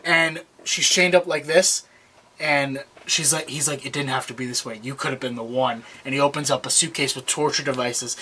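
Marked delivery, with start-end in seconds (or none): 3.9-5.8 low, soft imitation of a killer; understated menacing disappointment; quiet regret. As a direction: murmur it low, lightly acted. Killer quoted at final flashback.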